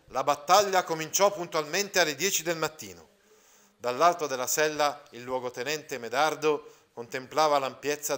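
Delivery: measured literary read-aloud to the class; a teacher reading Calvino aloud, steady and clear; story reading. Acted. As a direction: read the novel passage with care. Teacher reads novel passage aloud.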